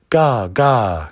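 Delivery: put-on cawing baby raven. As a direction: caw like a crying raven chick. Baby raven crying caw.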